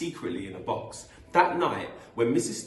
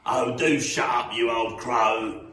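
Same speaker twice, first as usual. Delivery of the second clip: loud, grumpy husband's retort; Mister Twit; 7 dB louder, slower than usual. Acted. Mister Twit silencing his nagging wife, loud and irritated. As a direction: snap it loudly at his wife.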